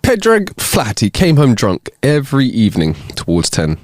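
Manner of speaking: put-on joke-telling in a half-committed Irish accent. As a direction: narrate with a rough Irish accent. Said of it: "the terrible Irish accent that I put on".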